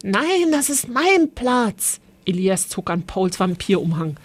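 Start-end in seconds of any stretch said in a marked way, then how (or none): 0.0-2.0 high, slow and stubborn; indignant protest. A narrator's reading. Elias insists to Paul the chimney is his, high and slow. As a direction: drag it out like a put-out kid brother.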